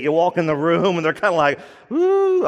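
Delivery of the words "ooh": high swooping impressed ooh; a delighted, awed ooh; mock impressed gasp of ooh. People reacting to Spirit-filled person.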